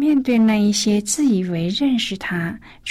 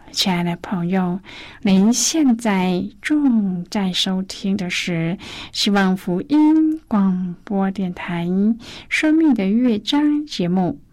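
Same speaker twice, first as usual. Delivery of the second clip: radio station announcement. Acted.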